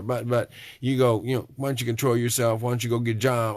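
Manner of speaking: mock inner critic.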